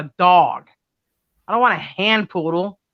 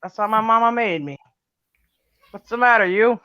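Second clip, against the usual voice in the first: higher, slow sassy comeback; 4 semitones higher than usual. Retold or imitated. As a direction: throw it back at him with attitude. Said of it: "I said".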